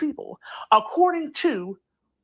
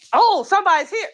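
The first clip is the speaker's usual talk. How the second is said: high, loud mock yell; 8 semitones higher, 5 dB louder, faster than usual. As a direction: call it out like a yell. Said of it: "are you yelling?".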